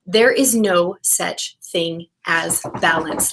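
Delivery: slow, deliberate emphasis on each word; emphatic. Real, not acted. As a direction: state "there is no such thing as balance" slowly and firmly.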